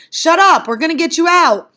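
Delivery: loud, high urgent yell; forceful high-pitched shout. A narrator's reading. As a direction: yell over a screaming child to take charge. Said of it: "and Johnny yelled".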